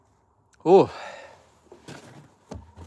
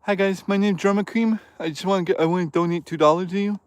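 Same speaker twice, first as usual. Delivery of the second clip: lightly higher goofy donor voice; 5 semitones higher than usual. Retold or imitated. Streamer demonstrating a Drummer Cream voice for chat. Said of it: "talking like that".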